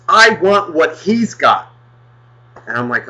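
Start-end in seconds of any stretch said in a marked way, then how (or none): 0.1-1.7 put-on high, drawn-out kid demand; little kid. Kid coveting the shopper's comic, high slow voice. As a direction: imitate a child pointing and wanting, slow and high. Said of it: "the kid looks up and he goes".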